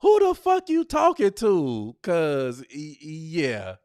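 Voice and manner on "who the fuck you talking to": high, loud confrontational yell; mock angry shout. Shown as a demonstration. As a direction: shout it in her face.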